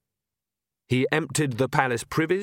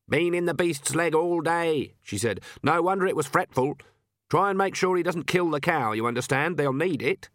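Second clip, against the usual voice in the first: put-on brisk old witch, higher pitched; Granny's voice; 5 semitones higher than usual. Granny instructing the midwife, brisk and practical. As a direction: speak as a no-nonsense old witch.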